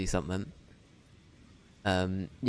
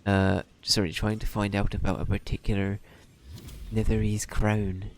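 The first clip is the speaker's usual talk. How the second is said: put-on generic halfling in West Country accent; a lightly done West Country voice. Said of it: "why you're doing the West Country accent".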